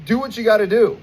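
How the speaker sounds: high, exasperated outburst at the doctor; outraged retort. Retold or imitated. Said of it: "And I'm like".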